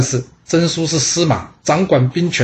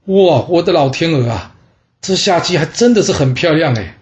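amazed admiration; 3 semitones higher than usual. Acted. King first sees a beautiful woman.

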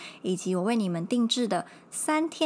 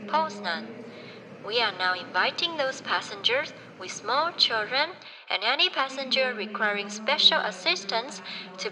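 formal gate announcer voice; smooth, measured boarding call; airport announcement; 2 semitones higher than usual. Pretend. English boarding announcement read.

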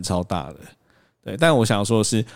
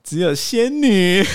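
high slow giggling cutesy voice; cutesy fairy talk; 8 semitones higher, slower than usual. Retold or imitated. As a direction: coo it with a giggle. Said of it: "然后你就说".

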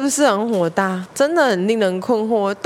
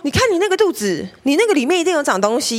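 a hint of a fussing mother, higher and fast; mimicking mom; 6 semitones higher, faster than usual. Daughter imitating her mom's belly worry, higher and fast. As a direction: lightly play the nagging mom, quick and high.

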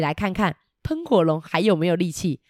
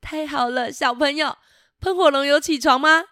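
happy princess; 6 semitones higher than usual. Acted. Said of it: "伊丽莎公主很开心地说".

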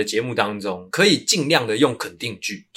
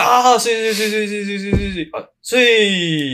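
high excited stammer; 9 semitones higher than usual. Acted. Mock stammer reacting to title.

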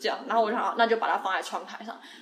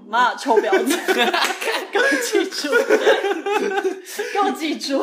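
mock inner curse; 7 semitones higher, 5 dB louder than usual. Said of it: "我心里在想".

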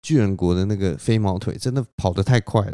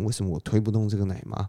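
a fast, softer "为什么我推不动这个奶妈" to himself; quieter muttered repeat; 5 dB quieter, faster than usual. Acted. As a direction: mutter it again quickly under the breath. 然后他就很惊讶.

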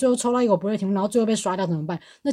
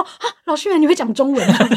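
mock surprise; 4 semitones higher, 5 dB louder than usual.

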